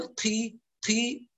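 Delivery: "قي" with a puff of air after the q; aspirated qaaf, wrong. Shown as a demonstration. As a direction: leak breath out of the "ق" in "قي". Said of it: "لا نخرج هواء". ("قي" بقاف يخرج معها هواء)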